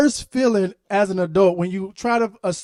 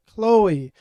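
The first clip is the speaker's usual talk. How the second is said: stern parent; 4 dB louder, much slower than usual. Retold or imitated. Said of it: "and I'm like".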